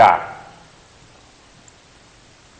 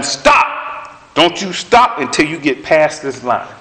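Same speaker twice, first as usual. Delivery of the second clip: retold yell at kids; slower than usual. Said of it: "we're yelling at them".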